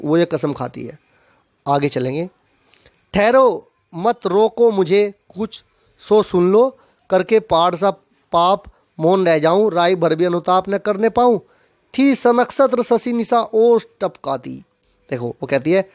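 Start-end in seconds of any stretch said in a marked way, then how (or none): 3.1-14.6 deliberate, metred poem reading; poetry read out to a class; verse recitation. Acted. Recites poem verse before explaining it.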